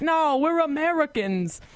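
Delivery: put-on high, slow Boston accent; lightly voiced Boston brother. Retold Boston brother's line.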